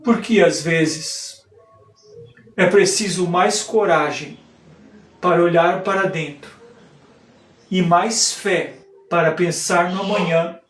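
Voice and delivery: lightly declaimed stage monologue with measured pauses; theatrical monologue. Acted. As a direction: recite it like a poetic soliloquy, pausing between phrases.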